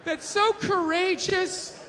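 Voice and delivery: mock gushing, slow and drawn out; sarcastic gushing, stretching each so; gushing praise. Fans hyping up a cover model, slow mock gush. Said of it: "everybody's, like, hyping them up".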